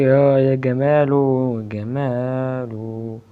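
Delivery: slow, drawn-out delighted sigh of praise; savoring delight. Real, not acted. Gamer enjoying the car ride, drawn-out delight. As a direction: stretch each word out in pleasure.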